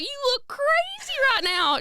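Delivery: high, slow teasing mom voice; mom impression. Daughter imitating mom teasing her gym look. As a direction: drag it out like a fussing mother. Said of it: "She's like".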